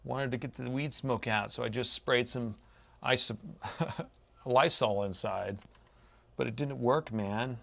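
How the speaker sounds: laid-back stoner talk. Pretend. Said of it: "I keep talking in a weed, a stoner voice".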